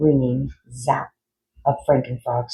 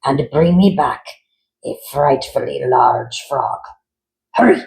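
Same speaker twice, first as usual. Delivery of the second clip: commanding doctor; 3 dB louder than usual. Acted. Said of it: "he instructed the Mungers".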